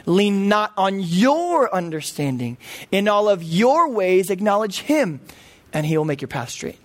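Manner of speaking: slow, weighty scripture read. Acted. Preacher reading Proverbs to the congregation, slow and solemn. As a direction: lay the verse out slowly and deliberately.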